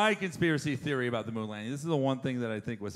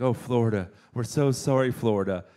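mock sympathy; 4 semitones lower than usual. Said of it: "everyone was like".

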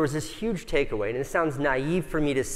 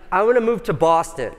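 higher and louder, bursting with the idea; eager announcement; 7 semitones higher, 8 dB louder than usual. Retold or imitated. Husband telling his wife the plan, eagerly. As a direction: pitch it up like big news.

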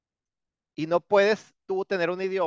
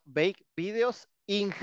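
slow quoted mistake; 4 semitones higher, much slower than usual. Retold or imitated. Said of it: "ya me ha pasado".

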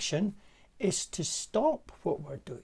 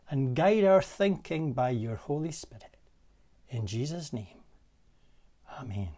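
spoken prayer. Real, not acted. Preacher asks the Lord to guide the coming week, prayerful.

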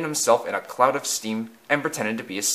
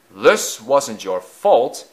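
reassuring; 5 dB louder, much slower than usual. Acted. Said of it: "he said".

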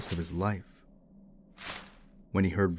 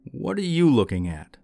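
raised, louder annoyed demand; 7 semitones higher, 6 dB louder than usual. A narrator's reading. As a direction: challenge him, irritated, pitched up. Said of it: "annoyed that the man would not look away".

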